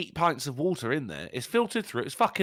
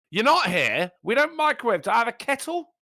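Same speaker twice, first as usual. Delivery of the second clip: pitched up, indignant and loud; high outraged protest; indignant high rant; 9 semitones higher, 4 dB louder than usual. Real, not acted. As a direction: protest like a Brit insulted by microwave tea. Indignant rant about microwave tea.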